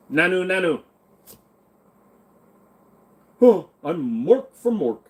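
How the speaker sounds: lightly voiced Mork from Ork greeting; Mork impression. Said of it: "That's not what he sounded like".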